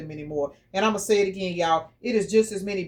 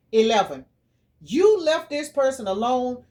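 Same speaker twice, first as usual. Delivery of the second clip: usual speaking voice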